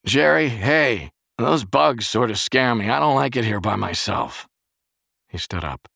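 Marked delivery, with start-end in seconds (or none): 0.1-4.5 loud, high, drawn-out call for a friend; scared friend calling through the house; sudden alarm. A narrator's reading. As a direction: call out uneasily, raised voice. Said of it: "he said suddenly".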